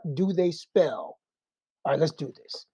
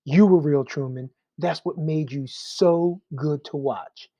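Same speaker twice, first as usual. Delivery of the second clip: loving. Retold or imitated. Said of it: "he's saying it so lovingly".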